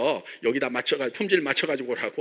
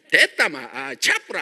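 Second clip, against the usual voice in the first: Gyeongsang dialect. Retold or imitated. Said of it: "막 경상도".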